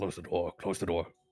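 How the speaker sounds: low, rushed mumble under the breath. As the character Luca, speaking to Otardo in a role-play scene, mumbling. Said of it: "kind of mumble to uh".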